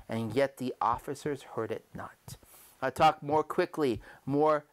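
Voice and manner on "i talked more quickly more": louder and higher, building to a near shout; frantic rising rant. A narrator's reading. Guilty narrator losing control before the police, building shout. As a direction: let the panic swell line by line. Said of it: "in a high key".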